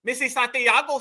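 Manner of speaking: "Santiago" with an imitated Spanish accent; teasing Latino-accented "Santiago"; mock Latino dialect. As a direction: slip into Spanish pronunciation on "Santiago". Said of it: "I heard a real Santiago in her damn dialect".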